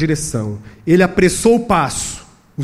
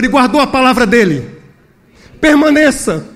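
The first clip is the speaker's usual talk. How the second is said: emphatic, raised exhortation; impassioned preaching; 7 semitones higher, 5 dB louder than usual. Real, not acted. Preacher urges Hagai Brasil to stay faithful, impassioned. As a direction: press the encouragement home with force.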